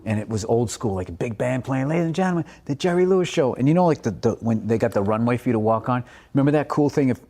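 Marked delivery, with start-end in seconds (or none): 1.9-2.4 raised showbiz announcer call; announcer intro. Retold or imitated. Imitating the announcer opening the Jerry Lewis show. 2.6-3.5 raised announcer delivery; announcer intro. Retold or imitated. Imitating the TV announcer, showbiz announcer call.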